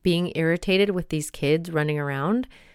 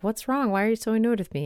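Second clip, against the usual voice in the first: higher-pitched mock-irritated questioning; lightly acted snippy question, pitched up; not-great, accusing tone; 5 semitones higher, faster than usual. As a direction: re-enact a touchy accusation to a partner. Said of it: "comes out in a not great way".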